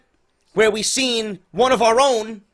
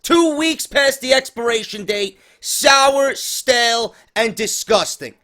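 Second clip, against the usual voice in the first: hammed-up TV sponsor read; mock announcer intro; 3 semitones higher, 3 dB louder than usual. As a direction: announce it like a sarcastic ring announcer.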